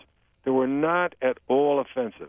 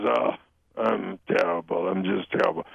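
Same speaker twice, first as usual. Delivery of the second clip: put-on slightly lower, Jewish-accented mother; lekki żydowski akcent; 7 semitones lower than usual. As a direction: complain with a light Jewish accent. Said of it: "a little bit of a Jewish accent".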